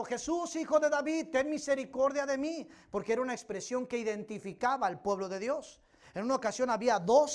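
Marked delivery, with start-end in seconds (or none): 0.0-2.7 high pleading call, pitch up on Jesús; a woman begging Jesus, calling out higher; imitated crying out. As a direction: cry out for mercy as a beggar would. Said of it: "va detrás de Jesús gritando".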